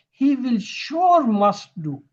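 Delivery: SURE drawn out high, then MUST do; double emphasis. Shown as a demonstration. Teacher showing students double stress, emphatic on "sure must". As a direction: lean slowly on "sure must".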